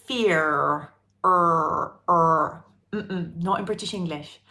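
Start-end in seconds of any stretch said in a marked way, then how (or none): 0.0-2.6 fear with a strong rolled-in American r, er drawn out; American-style fear, r pronounced; American accent. Shown as a demonstration. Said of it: "in American English, one would say".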